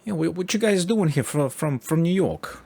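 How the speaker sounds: a hint of a nosy older New Yorker; curious local stranger quizzing the tourists. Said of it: "he was basically like".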